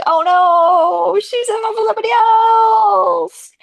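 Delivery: high, loud anguished cry; mock heartbroken wail. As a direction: wail it out in hammed-up despair. Acting character's heartbreak.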